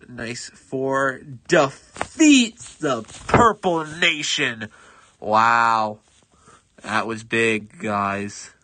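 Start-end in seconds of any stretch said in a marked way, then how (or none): 1.5-8.5 put-on loud, slow British proclamation in a British accent; booming British announcer accent, drawn out. British accent for the gamer's big victory announcement. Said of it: "suddenly becoming British".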